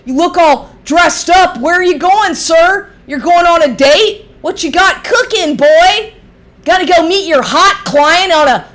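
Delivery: sneering at the ex as he drives off to his date; mocking taunt. Real, not acted. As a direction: needle him like a schoolyard bully. Taunting the ex as he leaves.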